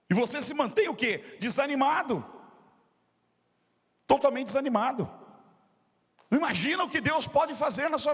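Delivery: high-pitched, emphatic sermon delivery; impassioned preaching. Acted. Pastor challenging the discouraged congregation, impassioned preaching. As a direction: preach it with insistent energy.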